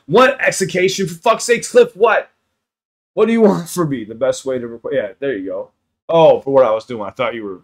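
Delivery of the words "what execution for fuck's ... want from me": exasperated confusion. Real, not acted. Confused outburst at chat.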